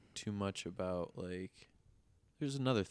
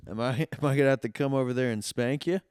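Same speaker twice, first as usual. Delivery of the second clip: mock threatening salesman; 4 semitones higher, 6 dB louder, faster than usual. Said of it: "he goes".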